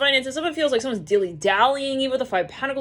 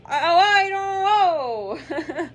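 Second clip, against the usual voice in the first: high, very drawn-out wavering stall; mock dithering; 8 semitones higher, much slower than usual. Leo put on the spot by the buzzer, dithering. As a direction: stretch it out in comic indecision.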